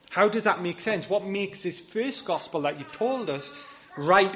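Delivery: acted incredulous questioning; puzzled objection. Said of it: "read that and you think".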